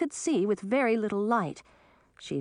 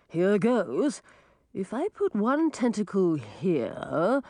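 slow, straining octopus voice; gurgling tentacle alien; 2 semitones higher, slower than usual. Acted. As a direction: octopus twisting with effort.

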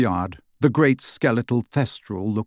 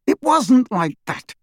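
slow, strained, high and tense; through gritted teeth; 13 semitones higher, 4 dB louder than usual. A narrator's reading. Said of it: "said Harry through gritted teeth".

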